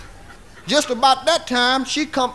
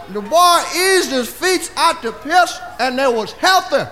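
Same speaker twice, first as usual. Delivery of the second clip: normal talking voice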